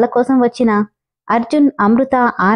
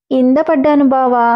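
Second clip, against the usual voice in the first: sobbing; 2 semitones higher than usual. Acted. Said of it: "వెక్కుతూ చెప్తుంటే".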